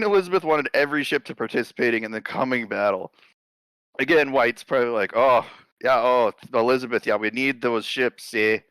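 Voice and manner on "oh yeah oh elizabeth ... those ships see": lightly put-on Canadian accent; a hint of a polite Canadian; a touch of Canadian accent, half-hearted; mock Canadian accent. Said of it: "I don't know why I turned him Canadian".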